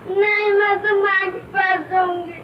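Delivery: put-on child crying for mother; tearful insistence. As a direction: whine tearfully in protest. (रोते हुए ज़िद)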